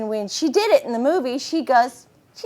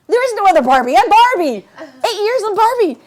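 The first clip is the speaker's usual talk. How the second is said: louder, higher insistence on being Barbie; indignant protest; 9 semitones higher, 8 dB louder than usual. Retold or imitated. Told Disney picked another Barbie, indignant louder protest. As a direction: protest that you are the real one. Retold protest at losing role.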